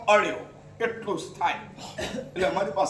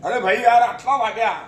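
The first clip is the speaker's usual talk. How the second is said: 1 show-off imitation; 7 dB louder than usual. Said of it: "અને આમ બતાવે".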